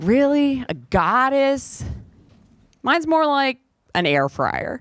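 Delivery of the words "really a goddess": slow, doubtful "A goddess?"; skeptical. Retold or imitated. Doubting the goddess claim, slow and skeptical. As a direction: question it with slow disbelief. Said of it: "I'm like".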